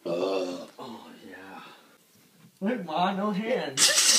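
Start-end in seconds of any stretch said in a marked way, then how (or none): 2.6-4.2 playful. Pretend. Showing off climbing the stairs.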